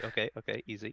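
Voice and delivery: softly calming a growling animal; gentle, quiet reassurance; soothing. Acted. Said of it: "and I say".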